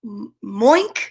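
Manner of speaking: stuttered start, rising at the end; hesitant botched moo with an oink tail; cow attempting moo. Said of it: "tried to go moo".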